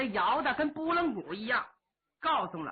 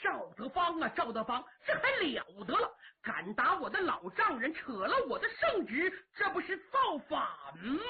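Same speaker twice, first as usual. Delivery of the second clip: a touch of an emperor's rage, ending in a cry; mild anger. Acted. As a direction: fume at the nephew who defied him. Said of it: "火腾就上来了".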